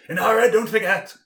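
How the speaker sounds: a light character voice, pitch dropping line by line; Kelris character voice. Acted. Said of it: "Calris goes".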